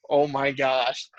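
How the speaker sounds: slow, drawn-out amazement; retold stunned disbelief. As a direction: stretch it out as if just flattened. Retells being flattened by linebacker.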